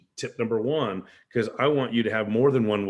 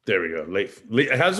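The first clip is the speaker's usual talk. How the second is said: ordinary talk, nothing marked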